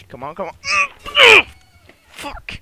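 long drawn-out high scream at the screen; desperate scream of come on; frustrated scream. Real, not acted.

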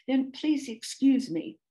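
politely drawn-out apology; lightly voiced, calmed-down cow; calmer. A narrator's reading. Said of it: "asked the cow more calmly".

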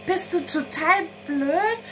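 high, sharp snapped question; hissing at her friend. A narrator's reading. Anna snaps at Conny after Philipp leaves, hissing. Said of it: "faucht Anna Conny an".

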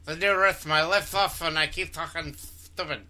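lisping fish with no lips. Pretend. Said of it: "Fish lisp".

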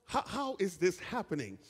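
high, amazed cry of disbelief; rising wonder, almost baffled; astonished crowd member. Retold or imitated. Another listener hearing his dialect, high and amazed. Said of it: "somebody else heard their dialect".

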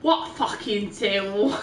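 film quote. Retold or imitated. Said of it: "the line of the film".

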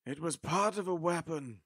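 flat. Acted. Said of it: "he said flatly".

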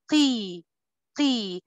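firm back qaf in قي; kasra qaf. Shown as a demonstration. Teacher showing the kasra qaf for students. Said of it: "يبقى القاف بقول".

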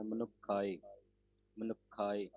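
ਮਨੁਖਾਏ with a tight, doubled ਖ; ਮਨੁਖਾਏ ਕੱਸ ਕੇ; doubled consonant. Shown as a demonstration. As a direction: press on the ਖ in ਮਨੁਖਾਏ. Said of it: "ਇਸ ਤਰ੍ਹਾਂ ਉਚਾਰਨ ਕਰਨਾ".

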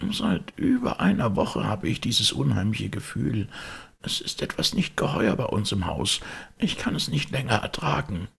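put-on high, anxious old butler voice; frightened old servant. A narrator's reading. Poole continues.

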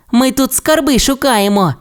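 high, proud little-dino voice; little Timmi. A narrator's reading. Timmi tells Ebbi they hunt treasure, high. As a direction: tell her proudly. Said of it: "сказав Тімі".

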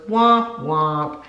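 a lightly imitated little girl's womp womp; toddler womp womp. Daughter mocks mom's sad remark with a womp womp. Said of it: "my daughter goes".

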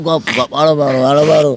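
low, repetitive hushing; calm the crying child, pitch dropped; soothing. Acted.

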